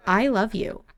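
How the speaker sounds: understated heartfelt "I love you"; sincere declaration. Acted. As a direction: say "I love you" earnestly, without cooing. Acts the declaration to a brother.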